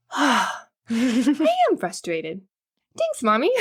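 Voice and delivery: lightly voiced toddler, high and slow; a hint of a two-year-old, pleased. Mother imitating her toddler son, lightly childlike.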